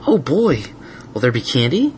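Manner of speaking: put-on high eager little boy; bouncing with excitement; excited kid voice. Spike excited.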